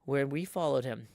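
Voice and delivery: calm, even audiobook narration; story narration. A narrator's reading. Host reading Moby Dick aloud to stream viewers, calm narration. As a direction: read the story steadily, setting the scene.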